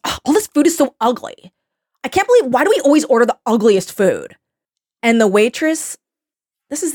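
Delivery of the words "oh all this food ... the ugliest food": higher-pitched mock complaint; annoying influencer. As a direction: whine like a fussy influencer, imitated. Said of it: "everything she's saying is so fucking annoying".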